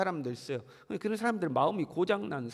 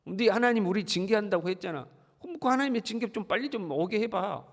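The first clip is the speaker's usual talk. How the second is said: taunting with a higher voice, needling and sneering; mocking taunt; 4 semitones higher than usual. 예레미야를 비웃는 백성들, 높게 조롱하는 말투. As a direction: jeer at him as if daring him to prove it. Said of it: "백성들이 에레미야를 비난하고 조롱하는 거죠".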